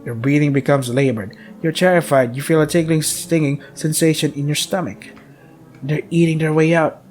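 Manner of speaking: steady, ominous game-text reading; horror narration. A narrator's reading. Streamer reading the horror game's story, ominous. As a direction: narrate the player's doom.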